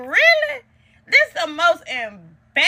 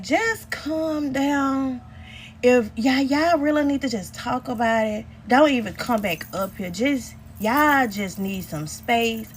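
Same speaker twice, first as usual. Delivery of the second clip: slow soothing nurse imitation; 4 dB quieter than usual. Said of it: "So she was like".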